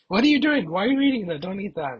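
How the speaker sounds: high, loud alarmed question; alarmed outcry. Retold or imitated. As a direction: cry out in alarm. Girlfriend alarmed, repeats her question.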